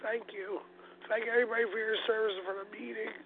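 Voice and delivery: raspy allergic smoker's voice; thick hoarse New Jersey voice; smoker's rasp. Real, not acted. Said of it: "Sorry about my thick New Jersey allergic smoker's voice".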